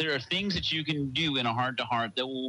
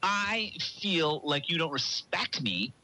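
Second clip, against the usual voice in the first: drawn-out slow example; slow example line; slower than usual. Shown as a demonstration. Husband repeating the bad example slowly. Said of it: "That's not an emotion".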